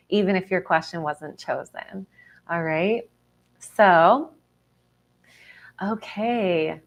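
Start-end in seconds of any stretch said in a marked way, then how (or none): 5.8-6.8 whispering. Real, not acted. Quiet aside before channeling.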